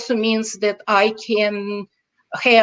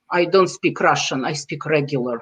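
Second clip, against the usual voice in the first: put-on very serious child; 6 semitones lower than usual. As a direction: say it low and earnest, like a solemn child. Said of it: "little kids can be very serious".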